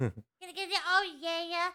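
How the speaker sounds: inhaled ditzy-blonde voice; playful alter-ego voice; put-on character voice. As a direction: suck in a little and play the dumb blonde. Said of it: "I could talk like this".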